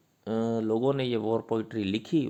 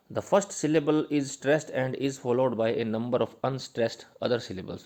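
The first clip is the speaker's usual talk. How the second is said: slow dictation; much slower than usual. Shown as a demonstration. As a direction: dictate it so students can write it down. Dictating notes slowly.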